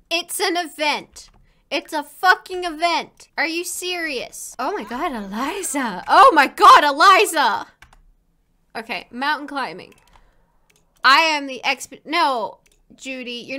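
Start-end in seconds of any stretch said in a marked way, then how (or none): 6.1-7.7 much louder, higher outburst of disbelief; loud exasperated cry. Real, not acted. Gamer yells at her Sim Eliza, loud exasperation. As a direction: yell her name in real exasperation.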